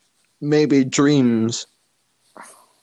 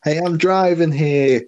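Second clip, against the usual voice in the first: higher, hammed-up New York accent; attempted New York accent; 4 semitones higher than usual. Co-host echoing the voice actor, attempted New York accent. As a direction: try the New Yorker's complaint. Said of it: "the accent is gone now".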